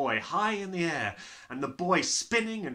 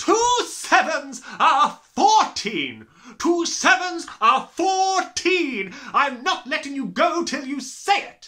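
very loud, very high, shrill bellowing; 9 semitones higher, 10 dB louder than usual. Reading a story, a woman holding a yelling boy aloft, bellowing. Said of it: "Miss Trunchbull bellowed".

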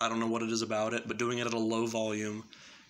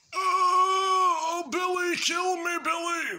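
put-on high, loud old-man scream with stretched "oh"; 7 dB louder than usual. Explaining the basic scream, the speaker gives an example in Stan's grandfather old man voice. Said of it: "often referred to as the old man voice".

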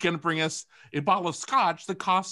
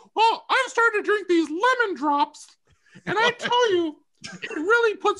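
very high, loud, squeaky voice; 5 dB louder than usual. Retelling what a man would answer you, in a high-pitched voice. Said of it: "he gets a little high-pitched".

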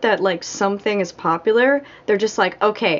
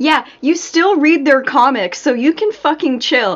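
riled-up, heated, worked-up rant, pitched higher; 5 semitones higher, 4 dB louder than usual. Speaker ranting about younger dudes hating on older people, getting worked up. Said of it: "now I'm getting worked up".

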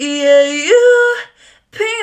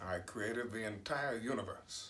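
very quiet, soft, hushed voice; 28 dB quieter than usual. Running through a rapid impression check, doing a Morgan Freeman impression. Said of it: "Morgan Freeman".

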